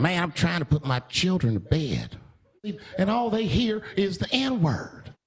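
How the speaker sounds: mock aggrieved parent, slowing at the end; a put-upon parent spelling out the complaint; complaining parent. Parent complaining about him after the Zoom meeting, mock aggrieved.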